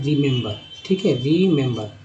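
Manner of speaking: रिमेंबर said clearly as ri-mem-bər; teacher modelling रिमेंबर with a short first i; model pronunciation. Shown as a demonstration. Teacher repeating the word for students, careful and clear. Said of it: "उच्चारण क्या करते हैं".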